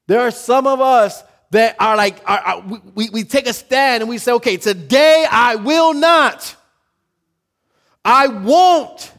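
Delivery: high, loud, building preaching. Real, not acted. Preacher rousing the congregation, loud and high. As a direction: preach it out at full force, voice up high.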